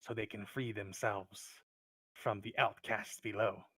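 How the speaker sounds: lightly voiced wary kobold, deliberate phrasing; a touch of suspicious cave creature. Kobold tells the adventurer about goblin rivals, wary.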